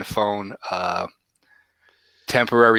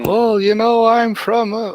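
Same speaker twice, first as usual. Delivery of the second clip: imitating telemarketer; 12 semitones higher, 5 dB louder, slower than usual. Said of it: "he starts talking".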